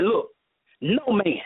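calm, measured quoted reply. Retold or imitated. Preacher voicing Jesus answering his disciple, very calm. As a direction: answer patiently, without heat. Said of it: "He said it very calmly".

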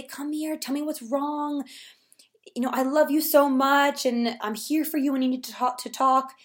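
put-on comforting a child.

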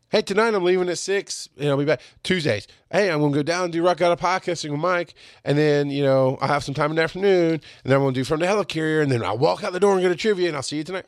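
acted-out easygoing update on the way out; casual heads-up. Rattling off plans to wife.

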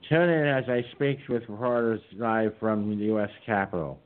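a hint of Pelosi, hammed-up announcer read; lightly mock her live-stream invite; cheesy Pelosi impression. Mocking Pelosi's press conference invite, lightly voiced. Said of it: "I did my cheesy Pelosi impression".

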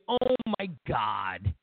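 mock gushing voter. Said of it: "you're thinking".

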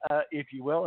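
rough voice, fighting a cold; hoarse sick voice. Real, not acted. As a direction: speak through a sore throat. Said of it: "excuse my voice, I am fighting something".

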